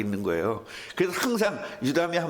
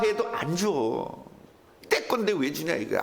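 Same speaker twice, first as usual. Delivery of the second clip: normal talking voice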